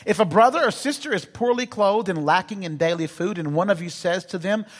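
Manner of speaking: slow, deliberate Bible reading from the pulpit; scripture reading. Acted. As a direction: read the verses out slowly to the congregation. Reads the Bible passage aloud.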